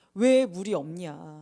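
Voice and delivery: loud, slow grumbling complaint.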